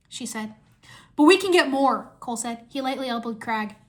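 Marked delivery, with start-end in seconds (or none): 1.2-2.1 higher, louder objection; eager protest. A narrator's reading. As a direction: jump in hopefully. Cole protests hopefully.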